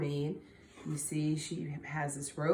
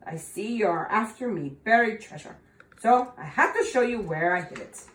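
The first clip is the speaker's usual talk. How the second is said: defeated leprechaun; 4 semitones higher, 6 dB louder than usual. Acted. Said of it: "quit squirming and said".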